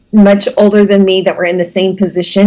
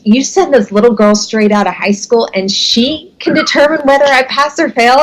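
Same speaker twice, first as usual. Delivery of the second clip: retold indignation; 5 semitones higher than usual. Retelling owner's scornful challenge to boss.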